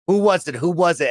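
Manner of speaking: lightly acted panicked questioning; mock panic. Players asking each other who the neighbor was, mildly panicked. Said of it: "everybody starts panicking of".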